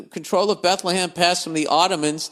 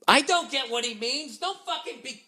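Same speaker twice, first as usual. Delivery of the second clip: much higher, strained mock voice; high mocking voice arguing with himself; mock whiny voice; 11 semitones higher, 4 dB quieter than usual. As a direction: squeak out the protest in a silly voice.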